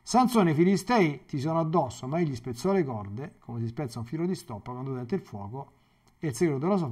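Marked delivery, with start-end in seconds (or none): 0.0-2.1 calling out to Samson in alarm, higher and louder; a sudden alarmed cry of his name; cried warning. Acted. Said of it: "ed ella gli gridò".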